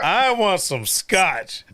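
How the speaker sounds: high, drawn-out declaration; relishing acted reply. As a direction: savor every word, slowly and playfully. Retold eager answer to wife.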